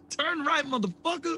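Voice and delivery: high, laughing mock Jackson; Samuel L. Jackson sat-nav. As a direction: bark the directions like a movie tough guy. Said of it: "Samuel L. Jackson doing Waze".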